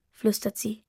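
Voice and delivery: usual speaking voice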